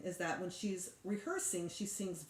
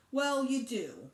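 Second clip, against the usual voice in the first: mock scream; 5 semitones higher, 5 dB louder, slower than usual. A narrator's reading. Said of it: "Libby screamed".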